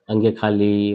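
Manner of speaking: ङ casually named "अंगे खाली", drawn out; slow, low "अंगे खाली" as a mistaken letter name; common mispronunciation. Shown as a demonstration. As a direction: show the slack way people say "अंगे खाली". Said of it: "इनको हम उच्चारण में हमेशा गलतियां करते हैं".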